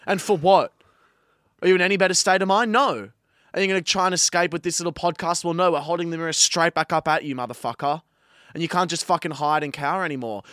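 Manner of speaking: normal talking voice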